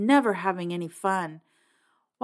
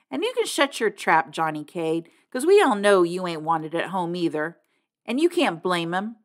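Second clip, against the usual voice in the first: angry. Acted. Lashing out at Johnny.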